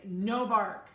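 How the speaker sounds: loud, firm "No bark"; stern command. Shown as a demonstration. Breeder demonstrating the command while swatting the puppy. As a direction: snap the command with the swat. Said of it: "and I'll say".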